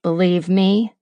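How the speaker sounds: male narrator voice. Acted. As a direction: read it as a wary man. Second narrator, Jake's chapter.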